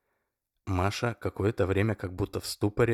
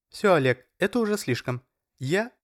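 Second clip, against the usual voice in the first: much higher, loud outrage; Masha outraged; 11 semitones higher, 4 dB louder than usual. A narrator's reading. Masha tells Oleg it's too much, higher and outraged. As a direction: draw the line.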